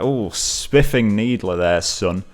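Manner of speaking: put-on slow, lightly done posh English accent; a hint of a plummy English butler. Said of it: "very posh English accent".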